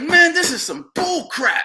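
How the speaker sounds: very high, loud, fed-up, annoyed outburst. Retelling what a fighter said after the stoppage: imitating a pissed-off fighter. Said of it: "He was pissed".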